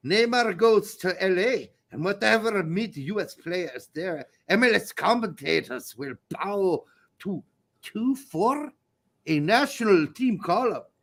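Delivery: put-on a shaky Scottish accent drifting toward Irish; attempted Scottish accent. Reading a fan's message aloud in a Scottish accent that slips into Irish. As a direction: read it in a Scottish accent, slightly off. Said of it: "you can't do a Scottish accent".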